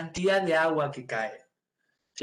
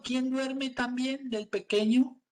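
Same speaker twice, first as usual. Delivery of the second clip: suspense tease; 8 semitones higher, slower than usual. Acted. Dramatic suspense question.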